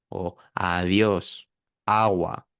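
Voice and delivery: adiós and agua with open, unstopped D and G; soft consonants. Shown as a demonstration. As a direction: let the air flow through "adiós" and "agua". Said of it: "Ahí no cortamos el aire". (consonantes aproximantes sin cortar el aire)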